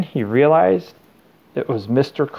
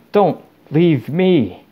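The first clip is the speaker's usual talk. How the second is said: slow, higher, strained but voiced plea; whispered plea; 5 semitones higher, 4 dB louder, much slower than usual. A narrator's reading. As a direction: beg desperately, drawing out each word. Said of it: "he whispered".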